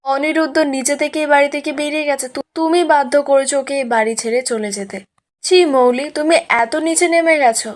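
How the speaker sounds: mildly indignant scolding; retold anger. Mother shames Mouli for driving Aniruddha out, mildly angry retelling. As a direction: lightly act out an angry mother. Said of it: "Ishani রেগে গেছে".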